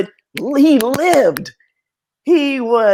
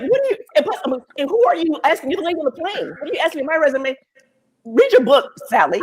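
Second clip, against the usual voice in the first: incredulous retort; 5 semitones higher, faster than usual. Retold or imitated. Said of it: "I was like".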